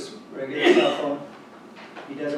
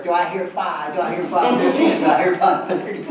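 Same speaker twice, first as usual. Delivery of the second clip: auctioneer; 2 semitones higher, 6 dB louder than usual. Pretend. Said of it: "You're like an auctioneer".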